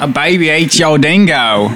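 slow, put-on Aussie vowels; Australian accent. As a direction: draw it out in mock Australian. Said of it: "best Australian accent".

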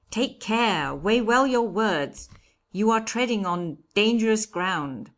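in a passion. A narrator's reading. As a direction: warn heatedly as the judge. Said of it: "cried the judge in a passion".

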